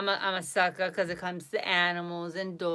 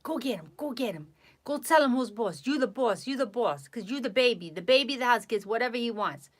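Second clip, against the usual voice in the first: hype voice; 2 semitones higher than usual. Acted. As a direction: hype up the dog. Hyping the dog up.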